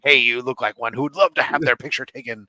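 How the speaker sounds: lightly voiced pirate sideshow barker. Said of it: "why am I talking like a pirate".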